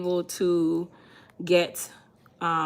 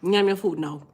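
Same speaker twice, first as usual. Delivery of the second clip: pushy auntie; 3 semitones higher, 4 dB louder, faster than usual. Pretend. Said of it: "You sound like Auntie Palmer now".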